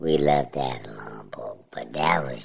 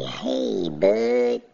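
mild mock of her calling out Hey Bud; imitating the old lady; 2 semitones lower than usual. Warning listeners about the racist old lady, a light mocking call. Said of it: "and they say".

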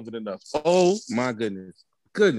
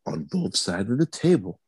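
formal news reporter voice; measured anchorman delivery; Peter Jennings. Pretend. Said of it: "he put on his good reporter voice".

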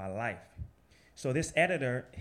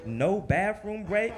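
high, loud, slow disbelief; can't believe it, rising; incredulous no break, drawn out; 8 semitones higher, 6 dB louder, slower than usual. Real, not acted.

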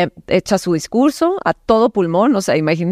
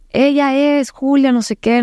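high, slow, drawn-out proclamation; retold public denouncement, pitched way up; mock full-lung yelling; 8 semitones higher than usual. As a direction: imitate someone yelling an accusation, without real volume. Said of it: "empieza a gritar a todo pulmón".

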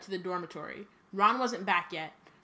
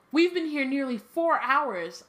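mock Lockhart; 5 semitones higher, 4 dB louder, slower than usual. Reading Lockhart's line.

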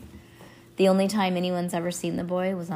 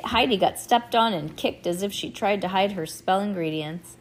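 plain reading voice

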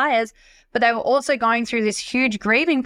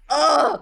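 anguished groan; 5 semitones higher than usual. Retold or imitated. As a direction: groan as if your heart is being torn out. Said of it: "it's like ripping my heart out".

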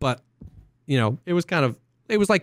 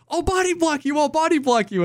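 much higher, urgent repeated offer; mock heroic shout; 13 semitones higher than usual. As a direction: throw yourself on the grenade, comically. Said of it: "I'm like".

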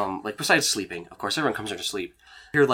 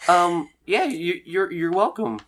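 awkward Gene voice; 8 semitones higher, 3 dB louder, slower than usual. Acted.

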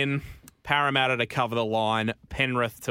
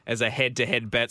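betting ad. Acted. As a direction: sell it like a radio ad. Sponsor read with music.

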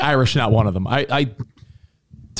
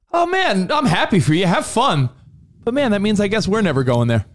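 mock sulky partner; 6 semitones higher than usual. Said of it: "where you're like".

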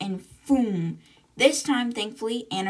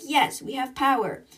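higher-pitched acted cheer; retold triumph; 5 semitones higher, 3 dB louder than usual. Engineer tells bridge power is back, retold triumph. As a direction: announce good news with a lift.

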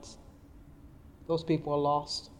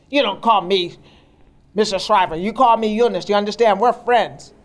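higher and louder, a firm friendly correction; firm Eunice correction; 5 semitones higher, 8 dB louder than usual. Retold or imitated. Eunice firmly telling Loretta to call her by first name, louder and higher. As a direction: set her straight, kind but insistent.

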